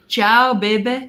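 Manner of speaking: breezy fake Italian farewell, stretched out; mock Italian accent. Mocking Italian locals on leaving the bar, hammed-up Italian accent. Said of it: "I'm even trying to do the accent".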